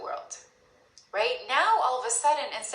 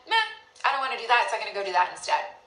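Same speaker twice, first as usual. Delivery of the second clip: dismissive meh; 4 dB louder, much faster than usual. Pretend.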